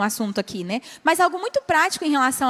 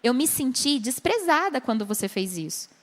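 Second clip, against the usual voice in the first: gentle; 3 dB quieter than usual. Shown as a demonstration. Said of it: "você vai falar".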